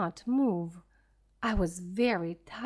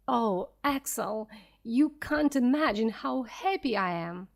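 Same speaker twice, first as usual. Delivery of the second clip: with more excitement. Acted. Uncle telling injured Axel about the sea, mildly excited. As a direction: share the discovery with mild delight. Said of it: "spoke with more excitement in his voice".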